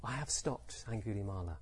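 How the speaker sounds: soft, tender appeal; full of compassion. Shown as a demonstration. Buddha to Angulimala, full of compassion for him, soft and tender. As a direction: say it very gently, caring for the listener. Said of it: "Maybe it was full of compassion".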